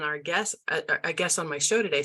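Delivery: stumbling over words from nerves; flustered, halting false starts; nervous stuttering. Real, not acted. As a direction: trip and restart, a little nervous. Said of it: "I'm even stuttering a little bit".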